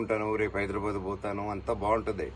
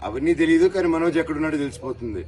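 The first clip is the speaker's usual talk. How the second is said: raised, louder, exasperated protest; angry outburst; 5 semitones higher, 6 dB louder than usual. Real, not acted. Confronting the police about the midnight raid, angrily raised voice. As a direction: push back hard, voice climbing. Arguing with police at his door.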